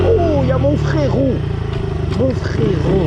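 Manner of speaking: greeting his biker brother, excited. Real, not acted. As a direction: hail your brother warmly from the bike.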